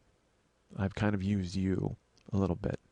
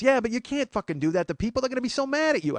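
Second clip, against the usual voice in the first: much higher mock mother, warning; a fretting mother's voice, pitched up; mock worried mom; 12 semitones higher, 4 dB louder than usual. Mom warning her son people will be mad, high mock voice.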